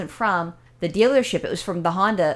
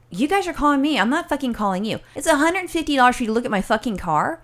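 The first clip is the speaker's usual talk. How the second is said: retold anger; 4 semitones higher than usual. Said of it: "now I was getting pissed off".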